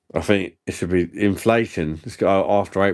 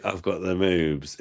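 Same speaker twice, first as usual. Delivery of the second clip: sexy voice; 4 dB quieter than usual. Pretend. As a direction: say it seductively, soft. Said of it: "in a sexy voice".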